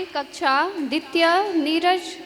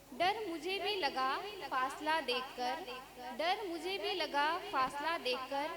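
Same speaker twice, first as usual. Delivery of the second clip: measured, lilting verse reading; soft, rhythmic couplets; poem recitation; 14 dB quieter than usual. Acted. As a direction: recite it line by line with pauses. Teacher recites a short poem.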